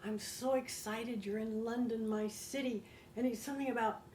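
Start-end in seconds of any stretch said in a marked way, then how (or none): 0.0-2.8 slow, soft imitation of an innocent letter; innocent, sweet. Young man's letter to a visitor in London, innocent and sweet. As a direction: read it sweetly and gently, taking your time. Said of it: "that was so innocent".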